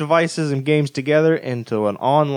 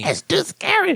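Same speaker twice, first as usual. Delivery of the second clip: mock scared. Mock scared whine about the game.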